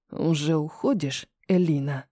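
low, quiet male voice pushed through the teeth; through gritted teeth. A narrator's reading. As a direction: press it out low through the teeth, holding back anger. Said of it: "Цедит сквозь зубы Руслан". (Руслан цедит сквозь зубы, низко и тихо)

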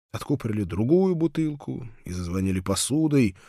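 ordinary delivery, nothing marked

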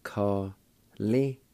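Ka-li as two separate held syllables; syllable-by-syllable pronunciation. Shown as a demonstration. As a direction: sound out Ka-li with a gap between the parts. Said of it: "First part is pronounced like this".

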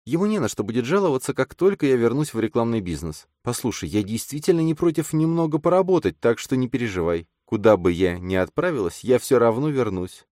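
слегка выше, мягкий голос женщины; чуть озвученная молодая женщина; женский голос героини. A narrator's reading. Эллен озвучена выше голоса рассказчика. (лёгкий женский голос)

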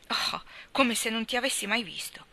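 a hint of exasperation; mildly impatient young man. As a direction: brush it off, a little fed up. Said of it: "disse Landry spazientito".

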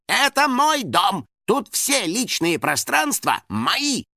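fury at being shut out; building rant. A narrator's reading. House spirit rants at the locked door, building anger.

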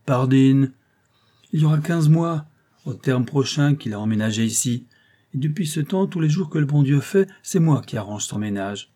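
a touch of a chatty concierge, proud of knowing; lightly voiced portress. Portress boasting to Tantenne about her tenant, a hint of a chatty concierge voice.

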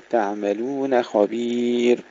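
slow chant, "تعملون" thin on ن, "خبير" full on خ; light nun, heavy kha. Shown as a demonstration. Teacher repeats the drilled words, light nun and heavy kha. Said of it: "خبير تفخيم الخاء".

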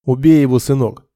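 loud, hate-filled command; urging shout. Acted. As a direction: spit it out at the son, loud. Father urges son to kill. (отец громко кричит сыну: убей его)

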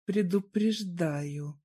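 slow, smug and satisfied; smug warning. Acted. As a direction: say it with a satisfied smile. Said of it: "ответил с улыбкой, довольный собой".

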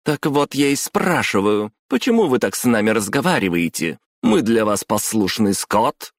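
high, heated questioning; indignant demand. A narrator's reading. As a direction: demand an answer from the boss, voice lifted. Raised-voice tirade at boss continues.

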